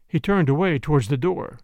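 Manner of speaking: plain reading voice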